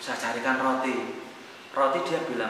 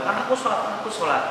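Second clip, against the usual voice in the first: high-pitched, insistent protest; husband brushing off his wife's plea to repent, whiny; whiny defensive excuse; 9 semitones higher, faster than usual. Retold or imitated. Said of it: "Saya selalu bilang".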